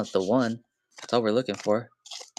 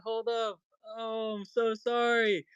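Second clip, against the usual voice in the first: breathless apology; 10 semitones higher, 3 dB quieter than usual. Real, not acted. Streamer apologising to chat for screaming. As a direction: still high and breathless, sorry for the noise.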